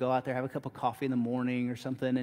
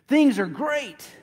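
"Things are great" drawn out slowly, louder and higher, punch on "Things"; stressed and slow; 9 semitones higher, 7 dB louder, slower than usual. Shown as a demonstration. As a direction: lean hard on "Things", slowly.

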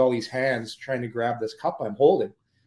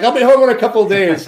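higher, louder, fast brush-off; breezy brush-off; 10 semitones higher, 10 dB louder, faster than usual. Retold or imitated. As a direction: toss it off quickly and loudly. His breezy reply to wife.

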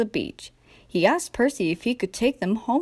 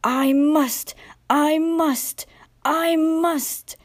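higher repeated effort, climbing each time; peeping engine voice; 7 semitones higher, much slower than usual. A narrator's reading. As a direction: push on like a straining little engine. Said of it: "Percy peeped".

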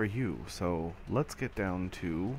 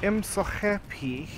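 mock joy; 9 semitones higher, slower than usual. Mock joy after one kill.

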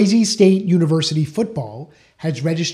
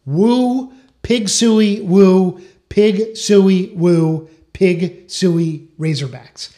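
half-hearted sports chant, louder on each woo; imitated crowd cheer; 3 semitones higher, 5 dB louder, much slower than usual. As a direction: start high and loud like a fan, then ease off. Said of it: "a crowd cheering the words".

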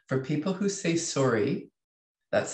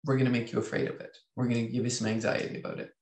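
scheming brain; 3 semitones lower, 3 dB quieter, faster than usual. Retold or imitated. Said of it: "our brain is like".

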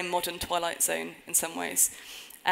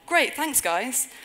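dry sarcastic thanks; 6 semitones higher, 5 dB louder, much slower than usual. Real, not acted.

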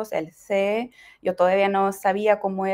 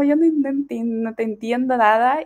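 flustered confusion; 4 semitones higher than usual. Retold or imitated. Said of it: "Y yo así como".

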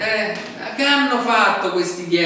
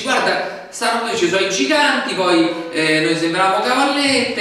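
loud, insistent mock report; dramatic retelling; 3 semitones higher, 7 dB louder than usual. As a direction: sell the fear to the army. Preacher retells spies' report. (racconto drammatico, forte e insistente)

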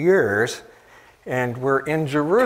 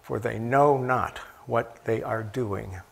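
tender forgiveness; 4 semitones lower, 4 dB quieter than usual. Retold or imitated. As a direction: let it fall quietly out of love. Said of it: "out of his love".

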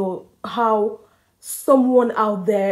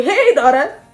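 ancestral spirit voice; 10 semitones higher, 4 dB louder than usual. Retold or imitated. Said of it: "the spirit of my fathers did not allow me sleep".

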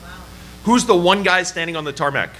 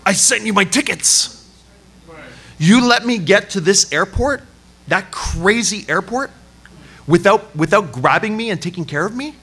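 high, raised voice of a wronged guest; indignant scolding; 5 semitones higher than usual. Retold or imitated. Visitor berating church hosts who left him stranded, indignant. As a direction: tell them off for abandoning you.

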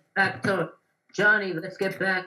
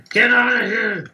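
yelling; 5 semitones higher, 6 dB louder than usual. Real, not acted. Yelling at a cow.

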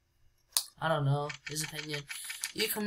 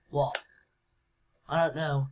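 normal talking voice

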